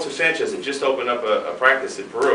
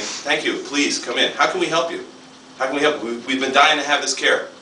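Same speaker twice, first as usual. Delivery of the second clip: lifted, bright grateful voice of a nation; eager welcome; 4 semitones higher than usual. Retold or imitated. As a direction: play the thankful hosts, gushing. Countries welcoming chiropractors, voiced.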